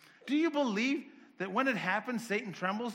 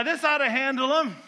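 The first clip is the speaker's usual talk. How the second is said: smug confidence; 5 semitones higher, 10 dB louder than usual. Retold or imitated. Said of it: "You go".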